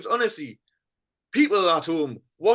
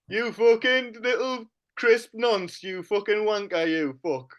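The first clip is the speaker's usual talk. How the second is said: mock Shearer swearing. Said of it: "he talks like this".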